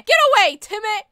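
high, sharp mock protest; play-panicked yelling. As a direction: shoo someone off in a high yell. Fending off another player, Timmy.

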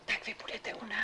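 soft unvoiced whisper. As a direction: keep it to a hush. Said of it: "Tak proč vlastně šeptáme?".

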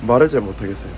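speech slurred by numbness; numb mouth from anesthesia. Real, not acted. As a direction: talk with a numb face. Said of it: "지금 마취가 안 풀려갖고 ... 말을 잘 못하겠어요".

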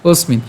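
"অস্মিন" as one word, osmin; joined pronunciation. Shown as a demonstration. Teacher asks learners to join it, unbroken "অস্মিন". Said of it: "আপনারা একসাথে উচ্চারণ করবেন".

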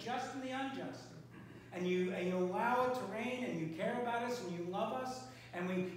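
spoken congregational prayer, calm and steady. Acted. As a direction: pray aloud over the church. Opens prayer.

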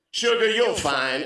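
lightly voiced grandmotherly quip, slow; sassy grandmother. Bartender quipping over her shoulder, lightly voiced grandmother. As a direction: toss it off slowly like a granny. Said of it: "she was channeling her eighty-five-year-old grandmother".

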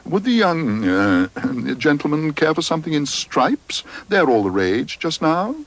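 oily sales pitch, lightly done; mild obsequious salesman; lightly voiced salesman. Assistant selling stripes.

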